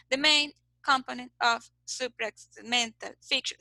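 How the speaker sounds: pauses between words in "The main component of suprasegmental"; halting, unnatural robot delivery, breaking up "main component of suprasegmental"; robot speech. Shown as a demonstration. Teacher shows what to avoid, robotic pauses in "main component of suprasegmental". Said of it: "so many pauses that we sound like a robot".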